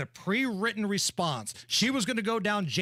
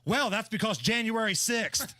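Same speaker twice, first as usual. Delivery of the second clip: mock answer; 2 semitones higher than usual. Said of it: "there's nothing on television tonight".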